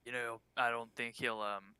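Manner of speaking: a hint of a character voice, picked by mistake; wrong innkeep voice. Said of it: "that wasn't the innkeep's voice".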